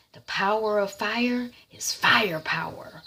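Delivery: slow, breathy whispered pronouncement; hushed mock-mystic whisper. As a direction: whisper it like a secret creed. Vulcan's cryptic line, acted.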